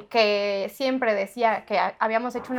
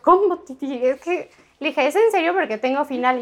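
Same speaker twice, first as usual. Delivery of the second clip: alarmed disbelief; 4 semitones higher, 4 dB louder than usual. Retold or imitated. Sister phones with broken foot.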